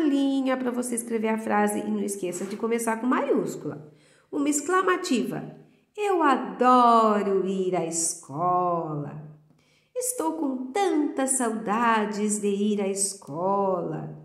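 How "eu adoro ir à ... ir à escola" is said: entusiasmado. Shown as a demonstration. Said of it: "tem que ter sentimentos".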